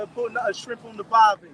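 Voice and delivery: playful mock Australian cliché; Australian accent. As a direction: ham up the Aussie line lightly. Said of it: "accent, man".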